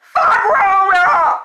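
yelling mom. Retold or imitated. Mom yelling at son in story.

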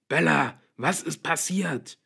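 high, loud, slow alarmed yell; shouting. A narrator's reading. Father hammering on daughter's door, shouting. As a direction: shout anxiously through a door. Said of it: "schrie Charlie und hämmerte".

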